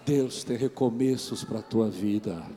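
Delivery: loud, fervent preaching; preaching at full force. Acted. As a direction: press the appeal home to the congregation. Preacher builds to climax.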